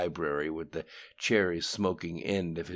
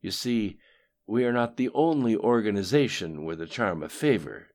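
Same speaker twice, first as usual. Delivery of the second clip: coldly; 4 semitones higher, 6 dB louder than usual. A narrator's reading. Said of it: "said Lim Shun coldly".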